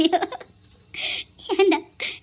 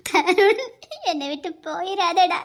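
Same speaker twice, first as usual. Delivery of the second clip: crying plea. Acted. Mother begs unconscious son.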